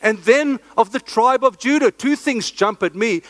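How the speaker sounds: breathless, rushing preacher; out of breath from preaching fast; hyperventilating. Real, not acted. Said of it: "I'm hyperventilating".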